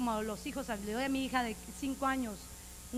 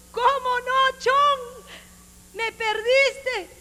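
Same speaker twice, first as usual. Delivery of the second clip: high, sarcastic sing-song, much louder and slowed; mock scolding answer; mocking retort; 11 semitones higher, 14 dB louder, much slower than usual. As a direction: tease back like an unimpressed friend. Mocking reply to straying believer.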